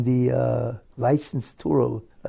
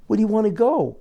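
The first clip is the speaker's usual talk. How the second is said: mock shout; 8 semitones higher, 4 dB louder, faster than usual. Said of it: "screams out and says in broken English".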